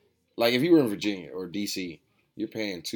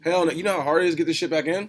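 loud, high-pitched, fast protest; emphatic refusal; 8 semitones higher, 7 dB louder, faster than usual. Real, not acted. Shop owner rejecting selling out his stock, loud emphatic protest. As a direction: protest it loudly, pitch jumping up.

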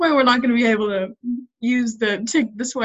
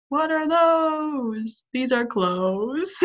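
kid voice imitation; 2 semitones higher, much slower than usual. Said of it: "And it was like".

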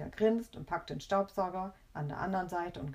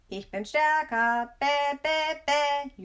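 loud, high, drawn-out gloating; shrieky, slow childish taunt up high; high-pitched jubilation; 7 semitones higher, 8 dB louder, much slower than usual. A narrator's reading. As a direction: crow like a triumphant kid. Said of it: "jubelt er in den hei-, höchsten Tönen".

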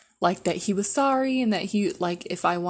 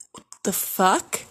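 incredulous whisper; 2 semitones higher, 3 dB louder, slower than usual. Retold or imitated. Shocked reaction to texts.

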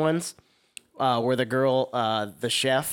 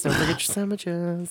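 cartoon quote; 5 semitones higher than usual. Quoting PSA voice.

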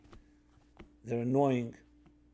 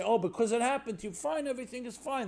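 mock dismissive; 8 semitones higher than usual. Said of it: "You don't want to say".

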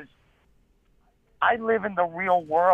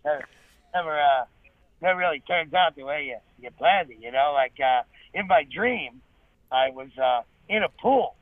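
Norm Macdonald impression; 4 semitones lower than usual. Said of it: "I do a pretty decent Norm impression".

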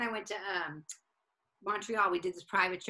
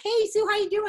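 high, loud mock hello; booker's breezy greeting; 9 dB louder than usual. Comic imitating the booker at the funeral, loud high greeting. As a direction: imitate an over-friendly greeting, pitched way up. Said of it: "and he's like".

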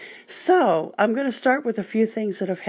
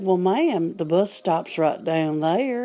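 southern gentleman. Retold or imitated. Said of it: "a nice southern sounding, uh, gentleman said".

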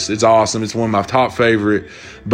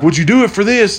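high, teasing bargaining voice; a pilot tempting the passenger with a bribe; coaxing offer; 10 semitones higher, 3 dB louder than usual. Retold or imitated. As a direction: dangle the bribe.

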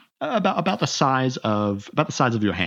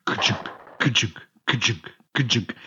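mouth-made mechanical chunking; evenly spaced clunks of a turning gear; imitated gear clunk. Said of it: "start to hear this".

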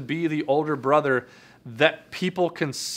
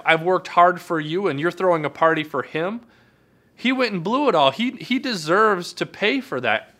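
put-on resentful older brother; 2 semitones higher than usual. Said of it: "He actually gets angry".

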